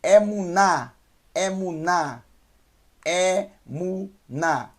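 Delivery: Emuná said slowly, stress on the final ná; Hebrew word drill. Shown as a demonstration. Teacher teaching the Hebrew word for faith, Emuná slowly. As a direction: draw out Emuná, landing on ná. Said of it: "Então eu tenho emuná".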